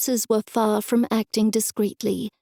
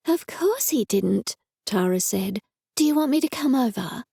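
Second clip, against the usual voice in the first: excited worried friend; 2 semitones higher than usual. Acted. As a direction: gush with alarm on the phone. Tara consoling.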